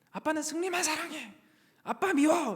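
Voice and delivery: high-pitched mock child's complaint; imitating upset child. Kids complaining that dad favours their brother, in a high, sulky child imitation. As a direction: put on a sulky little kid's high voice. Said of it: "대번에 하는 이야기가 뭔지 아세요?".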